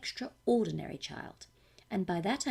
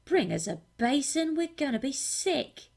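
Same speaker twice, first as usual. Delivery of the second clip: mock shout; 3 semitones higher, 5 dB louder than usual. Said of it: "we start shouting".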